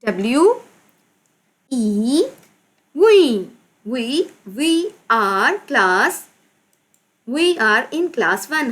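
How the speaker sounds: drawn-out, word-by-word reading; slow dictation. Shown as a demonstration. Teacher reading to class one, slow and deliberate. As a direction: read it out slowly for young pupils. Teacher reads sentence out for pupils.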